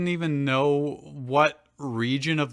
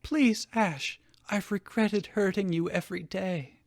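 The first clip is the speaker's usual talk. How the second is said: lightly voiced pleading mother, a bit higher; 5 semitones higher, 4 dB quieter than usual. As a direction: beg him softly, lightly played. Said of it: "Delia pleaded".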